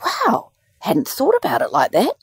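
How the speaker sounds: high, dopey amazed doctor; mocking the doctor. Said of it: "And he goes".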